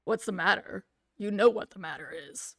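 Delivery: threatening father down the phone. Acted. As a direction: lean on him like an angry dad. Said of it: "threatening masculine voice".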